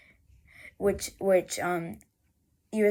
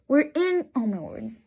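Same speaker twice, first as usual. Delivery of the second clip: higher, exasperated outburst; frustrated; 3 semitones higher than usual. Real, not acted. Road-trip narrator objecting to a sign for Corning, frustrated. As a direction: burst out in real frustration. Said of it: "I'm frustrated".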